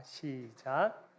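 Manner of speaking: ordinary talk, nothing marked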